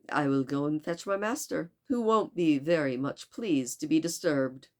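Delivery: lightly attempted French accent; Passepartout. Servant goes to fetch his displeased master, poor French accent. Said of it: "tried to do a French accent very poorly".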